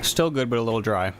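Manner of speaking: chewing while talking; mouth full. Real, not acted. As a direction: talk through a mouthful of donut. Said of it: "speaking with my mouth full".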